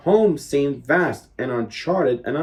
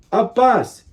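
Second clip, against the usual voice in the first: excited exclamation; 7 semitones higher than usual. A narrator's reading. Sudden discovery.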